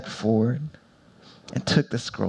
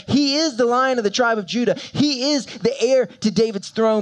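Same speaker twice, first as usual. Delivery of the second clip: proclaimed; 9 semitones higher than usual. Shown as a demonstration. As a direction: proclaim the titles boldly. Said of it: "this is my favorite part".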